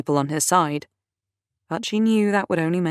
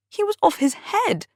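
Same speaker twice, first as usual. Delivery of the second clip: much higher, plaintive whine. A narrator's reading. Dudley complaining to Lizzie about Johnny, plaintive. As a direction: whine it, feeling hard done by. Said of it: "Dudley said plaintively".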